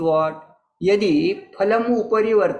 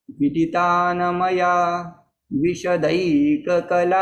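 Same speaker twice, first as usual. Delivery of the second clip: verse recitation. Retold or imitated. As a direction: recite the line deliberately, leaning on मया. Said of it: "सः वदति".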